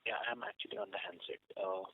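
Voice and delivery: muffled handset audio; bad phone line, words breaking up; over the phone. Real, not acted. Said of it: "Can you please speak through the handset?".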